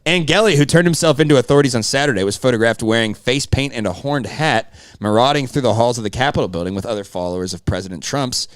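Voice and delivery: punchy, emphatic tabloid news read. Acted. Co-host reads his favorite tabloid's story in an emphatic news voice. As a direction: deliver the tabloid copy like an anchor. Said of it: "I got that fucking news voice".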